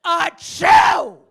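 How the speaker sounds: hammed-up shouted sneeze, high and explosive; huge, theatrical fake sneeze; really loud. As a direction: blast ACHOO out as a spoken mock sneeze. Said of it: "And it's really loud".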